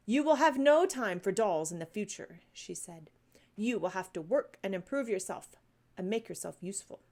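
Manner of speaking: lightly voiced severe headmistress; a hint of cold severity, laying down the rules. Miss Minchin laying down rules for Sarah, mildly severe. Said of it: "looked at her as severely as possible".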